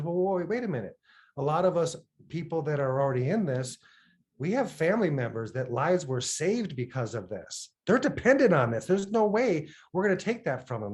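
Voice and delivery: he won't let them take it from families; indignant refusal. Retold or imitated. He refuses the pharma buyout.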